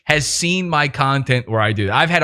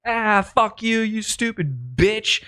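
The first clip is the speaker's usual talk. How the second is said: mock insult; 7 semitones higher, 3 dB quieter, slower than usual. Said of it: "I've been like".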